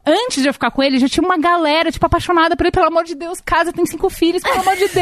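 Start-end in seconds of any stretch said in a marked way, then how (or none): 2.7-5.0 put-on high, swooning fan-girl voices; gushing friends. Friends gushing about Merigo, swooning high voice. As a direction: swoon over him like a fan club.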